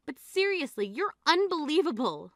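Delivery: write your sister off in disbelief; exasperated rebuke. Acted. Sister fed up with the bride's wedding talk, exasperated. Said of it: "You don't have to say it like that".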